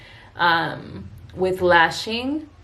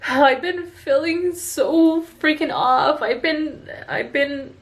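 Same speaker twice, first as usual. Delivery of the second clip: emotional, near tears; 4 semitones higher than usual. Real, not acted. Confessing imposter syndrome to viewers, voice breaking with tears. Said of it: "Sorry, I'm just so emotional".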